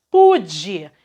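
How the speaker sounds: Pude with a strong first syllable PU; stress on PU. Shown as a demonstration. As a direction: hit the pu in Pude, let de drop. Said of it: "a sílaba forte dele".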